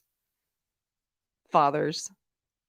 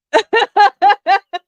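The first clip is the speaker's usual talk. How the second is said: loud, high burst of laughter; real laughter; 14 semitones higher, 13 dB louder than usual. Real, not acted. Cracks up at pimp joke.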